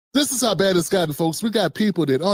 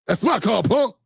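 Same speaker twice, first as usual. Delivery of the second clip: Debo. Retold or imitated. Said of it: "He starts sounding like Debo".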